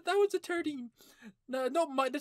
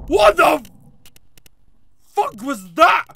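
startled; 8 dB louder than usual. Real, not acted. Startled by loud game noise.

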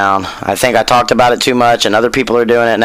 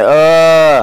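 long, higher-pitched imitation whine; mock whiny groan; 5 semitones higher, 3 dB louder than usual. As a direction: groan like a complainer, drawn out. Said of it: "boo-hoo about shit".

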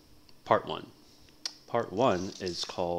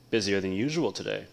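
bright, loud friendly hello; cheerful greeting; 3 semitones higher, 7 dB louder than usual. A narrator's reading. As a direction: call out cheerfully to a neighbour. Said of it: "Aladdin greeted the fruit seller".

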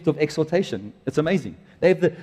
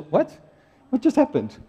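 baffled congregation; 8 semitones higher than usual. Retold or imitated. Congregation's baffled reaction voiced.

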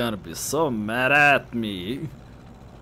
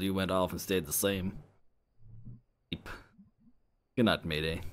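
cold resentful friend; bitter friend; 4 semitones lower than usual. Acted. Voices Bea, tired and low.

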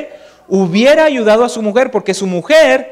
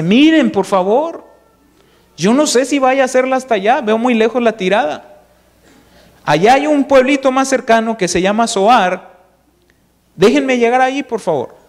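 higher, begging voice; pleading Lot; 4 semitones higher than usual. Acted. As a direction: whine a little, asking a favour. Lot begs angels for Zoar.

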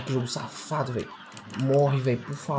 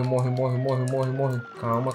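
usual speaking voice

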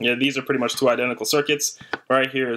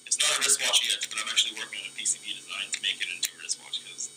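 heard over a tinny walkie-talkie speaker; through a walkie-talkie; 6 dB quieter than usual. Real, not acted. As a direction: talk into the handset, sound from the far unit. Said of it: "talk through the other one".

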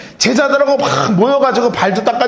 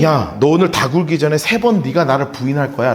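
Jesus, calm and low; 7 semitones lower than usual. Retold or imitated. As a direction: say it gently, knowing the betrayal. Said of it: "주님이".

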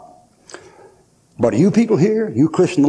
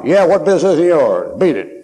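gruff retort; 3 semitones higher, 3 dB louder than usual. Retold or imitated. Gruff man rebuffs the preacher.

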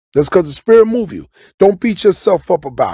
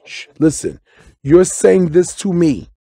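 soothing hush. Shown as a demonstration. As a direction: hush her gently mid-argument. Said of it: "grab and say".

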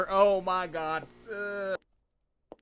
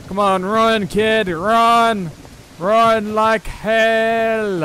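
higher, louder urgent push to run; frantic urging; 6 semitones higher, 6 dB louder, much slower than usual. Real, not acted. Player urges his character to flee, frantic urging. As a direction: drive yourself on, frantic.

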